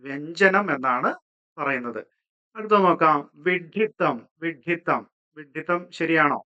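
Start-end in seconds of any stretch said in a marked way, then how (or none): 0.0-0.7 വ്യഞ്ജനം said slowly with a clear ഞ്ജ; slow model of വ്യഞ്ജനം; careful pronunciation. Shown as a demonstration. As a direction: spell out വ്യഞ്ജനം syllable by syllable. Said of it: "ഇങ്ങനെയാണ് വരുന്നത്".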